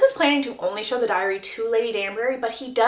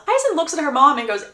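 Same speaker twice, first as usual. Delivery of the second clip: ordinary delivery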